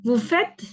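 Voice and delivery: faites dit avec le T final audible; vous faites, T final prononcé. Shown as a demonstration. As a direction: articuler nettement le T de faites. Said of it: "on va prononcer jusqu'à T". (prononciation modèle de vous faites)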